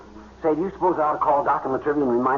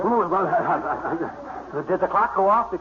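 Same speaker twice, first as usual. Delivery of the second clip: sleepy laugh; much slower than usual. Acted. McGee waking, laughing groggily.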